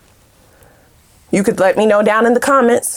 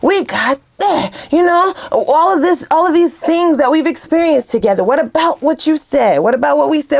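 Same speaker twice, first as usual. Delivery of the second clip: higher, pleading partner's guilt trip; pleading gaslighter; 4 semitones higher than usual. Pretend. Cheating partner pleading to be forgiven, guilt-tripping. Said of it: "seeking this forgiveness".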